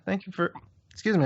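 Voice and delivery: talking through hiccups. Real, not acted. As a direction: hiccup breaks the words. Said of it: "I got the hiccups now".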